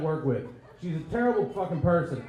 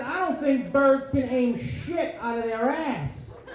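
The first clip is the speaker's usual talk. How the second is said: mock angry comeback; 6 semitones higher, slower than usual. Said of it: "I said".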